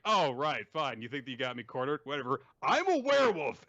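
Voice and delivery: acted exasperated bravado; defiant villain. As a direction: brush them off, then proclaim it high and loud. Villain's defiant outburst in story.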